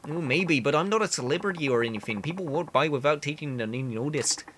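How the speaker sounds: earnest candidate in bad Canadian; awful Canadian accent. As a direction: campaign talk with a badly faked Canadian accent. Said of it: "I know the accent is awful".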